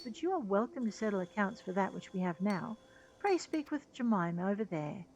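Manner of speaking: lightly acted, formal shopkeeper; courteous merchant. Merchant tells client about the ether sand, courteous and formal. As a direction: politely explain the stock to a valued client.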